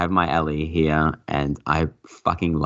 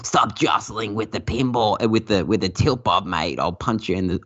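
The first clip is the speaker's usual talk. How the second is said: mimicked game call-out; 4 semitones higher than usual. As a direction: imitate a weird pinball warning voice. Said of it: "you hear that guy and he's like".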